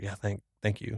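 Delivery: quiet, halting retold thanks; shook. Thanking the stranger after his prayer, mildly shaken. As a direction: softly stumble over the words, a touch dazed. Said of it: "but I was just shook".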